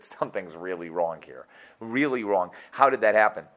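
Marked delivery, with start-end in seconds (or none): 0.0-2.5 quiet, grave, low and slow; low grave murmur. Retold or imitated. Moshe seeing the dancing stop, quiet grave murmur. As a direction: murmur it as a dark realisation. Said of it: "and he said".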